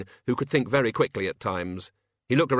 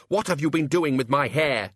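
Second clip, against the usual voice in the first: a pressing, indignant demand; 4 semitones higher, 4 dB louder than usual. Acted. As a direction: insist on an answer from the gnome. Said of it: "he demanded".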